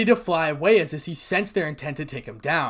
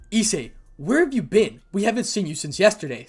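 higher, louder worried scolding; worried mother; 6 semitones higher, 6 dB louder than usual. Acted. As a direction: call out like an anxious mum. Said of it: "they were clearly worried about him".

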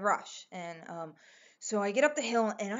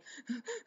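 quick, high, soft mock hyperventilating; imitated panicked gasps; 5 semitones higher, 10 dB quieter than usual. Storyteller showing the panic attack, imitated gasping. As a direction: act out short panicky breaths. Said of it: "I'm, like, freaking out".

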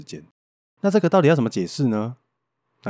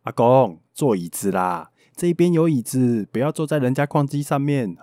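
retold shout; 3 semitones higher than usual. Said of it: "他还大喊说".

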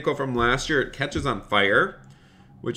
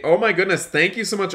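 higher-pitched surprised gratitude; delighted thanks; 6 semitones higher, faster than usual. Real, not acted. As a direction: react with delight to a donation. Reacting to a donation.

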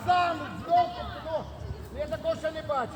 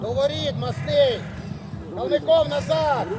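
shouted orders. Real, not acted. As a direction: call players back across the pitch. Coach calls players back into position.

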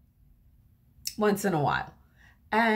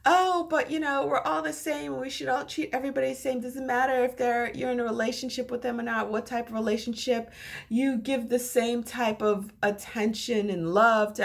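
mocking bleeding heart; 3 semitones higher than usual. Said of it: "with their bleeding hearts saying".

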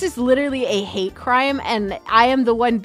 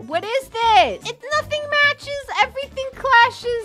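exasperated; 11 semitones higher than usual. Real, not acted. Exasperated at the clashing decor.

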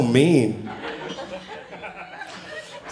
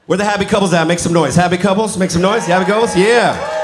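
crowd hype call; 5 semitones higher than usual. Real, not acted. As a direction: pump up the couples in the room. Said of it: "I love asking it like that".

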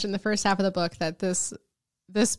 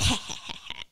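soft, low skull snicker; mock villain chuckle under the voice; mischievous cackle; 8 dB quieter than usual. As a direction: cackle quietly like a teasing skull. Skull mocking the characters, acted.

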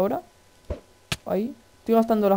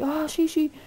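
much higher, thin drawn-out wow; excited squeal; 7 semitones higher, much slower than usual. Real, not acted. Gamer finding a way through, high excited squeal. Falls or flies through the game.

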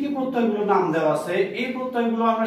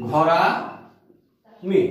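ঘরামি stretched very slowly, lower, with the ending আমি held; drawn out demo word; 4 semitones lower, much slower than usual. Shown as a demonstration. Teacher stretching out ঘরামি so students can hear its আমি ending. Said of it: "শেষে আমি কি উচ্চারণ করছি".

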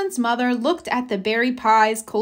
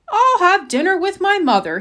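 Mister Owl voice; 8 semitones higher, 3 dB louder than usual. Acted.

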